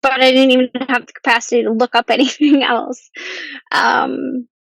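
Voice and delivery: fighting back tears while talking; teary, laughing through it; choking up. Real, not acted. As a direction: voice catching with tears, a half laugh. Choking up recalling breakdown.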